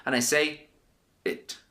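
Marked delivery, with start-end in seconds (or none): 1.2-1.6 "it" said soft with the mouth closed. Shown as a demonstration. Teacher showing students the closed ending, soft demo. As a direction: say "it" without opening the lips. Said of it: "You see how I'm not moving my lips".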